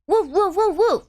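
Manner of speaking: lightly voiced dog barks; mock barking. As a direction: bark like an excited little dog.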